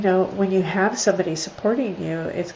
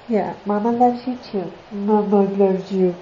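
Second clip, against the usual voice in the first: tender to dog. Real, not acted. Talking fondly to the dog.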